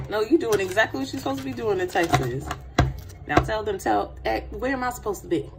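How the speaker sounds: normal talking voice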